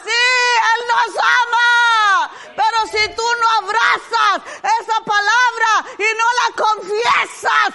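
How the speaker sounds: impassioned preaching, driving each line hard; fervent preaching. Acted. Preacher urging the church to confess aloud, fervent. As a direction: preach it to the congregation with fire.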